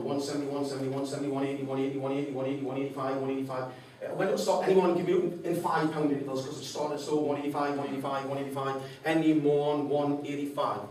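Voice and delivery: lightly voiced auctioneer call; auctioneer patter. Speaker retells the auctioneer calling bids, lightly voiced.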